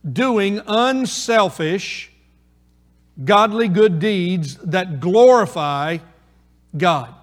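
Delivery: slow, each word set apart; "doing unselfish, godly good deeds that glorify God" spaced out and stressed; every word weighed. Shown as a demonstration. Preacher repeating the long point slowly so every word matters. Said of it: "every word matters".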